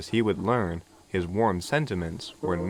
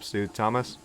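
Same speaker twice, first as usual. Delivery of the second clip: plain reading voice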